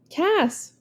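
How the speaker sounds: "Cass" called out high across the field; coach yelling. A narrator's reading. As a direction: shout the name to the player across the diamond. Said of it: "Coach yells".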